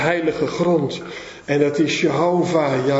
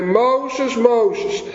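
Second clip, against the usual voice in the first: higher-pitched call of a name; 5 semitones higher than usual. Retold or imitated. God calls Moses from the thornbush, calling out.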